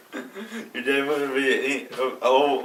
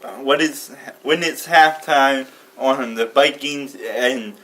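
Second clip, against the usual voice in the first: repeating to voice assistant; 4 dB louder, slower than usual. Real, not acted. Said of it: "Sorry, I'm not sure how to help".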